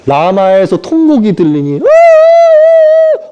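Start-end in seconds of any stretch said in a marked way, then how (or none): 1.8-3.3 long high loud drawn-out wail; a mother's long keening wail; wailing cry. Acted. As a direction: let out a long mourning howl. Rachel's wail of lament.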